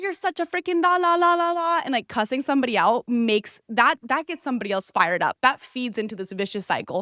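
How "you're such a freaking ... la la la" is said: high-pitched yelling. Advising listeners how to tell a partner they were hurt, demonstrating yelling. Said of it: "you yelling at them and being like".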